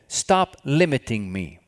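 God speaking to a worrier, slow and mounting. Retold or imitated. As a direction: deliver God's words with building force. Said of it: "what was he saying? God said".

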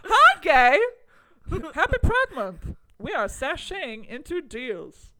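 hammed-up loud, high promotional cheer; exaggerated greeting, stretched out at the end; Megan Statler. Podcaster imitating a comedian's Pride bit, hammed-up cheer. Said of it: "God, I love Megan Statler".

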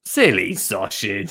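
teasing. Acted. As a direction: say "Silly sausage" low, a little slowly.

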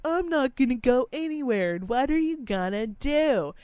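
mock drunk girl daring the speaker. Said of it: "she was like".

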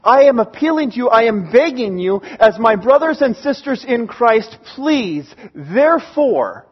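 quick pleading start, slowing at the end; heartfelt family appeal. Acted. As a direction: beg them as brothers and sisters. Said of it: "appealing to them as family members".

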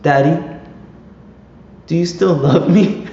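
put-on high, small pleading child voice; sweet little boy asking for love; son's plea. Son pleading to his dad, high and childlike. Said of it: "and he goes".

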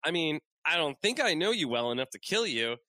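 mock-reasonable amateur character voice; Deadpool voice. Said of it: "And he's like".

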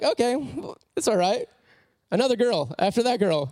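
resigned. Retold or imitated. Parents react to another girl.

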